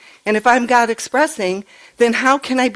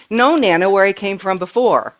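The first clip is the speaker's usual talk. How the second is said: put-on three-year-old granddaughter. Toddler granddaughter correcting Nana, lightly imitated child voice. Retelling granddaughter's words to her.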